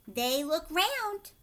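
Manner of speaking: slow, firm and insistent; insisting. A narrator's reading. Wonka insisting to Veruca, firm and slow. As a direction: hold your ground on round. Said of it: "insisted Mister Wonka".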